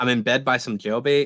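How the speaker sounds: ordinary delivery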